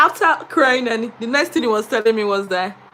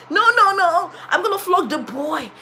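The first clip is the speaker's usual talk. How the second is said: laughing director voice; 6 semitones higher than usual. Retold or imitated.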